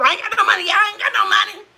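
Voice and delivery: high mock whine of being broke; Skinny Bubba impression. Imitating Skinny Bubba for her chat, a high mock whine. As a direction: pitch it way up and whine it. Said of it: "Sounded like Randy. Skinny Bubba".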